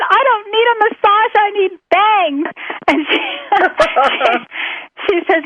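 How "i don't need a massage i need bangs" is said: frantic retelling. Retold or imitated. Retelling frantic reply to friend.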